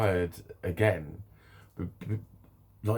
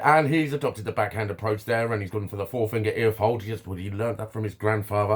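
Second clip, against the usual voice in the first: lightly voiced sports commentator, a bit louder; sports commentary; 4 dB louder than usual. Customer commentating on his own timed haircut, light sports commentary. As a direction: call the action like a match commentator. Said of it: "I did a sports commentary on his haircut".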